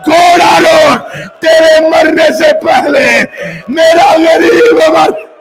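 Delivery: impassioned majlis recitation, rising to shouts; mournful preacher's wail; preaching at full force. Acted. Majlis narration of Karbala, preaching.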